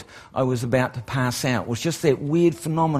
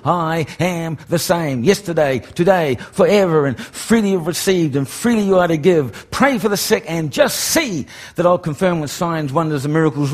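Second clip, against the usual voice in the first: fervent recitation. Retold or imitated. Preacher repeating God's promise to the crowd, fervent. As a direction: proclaim it with rising conviction. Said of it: "with that ringing in my spirit".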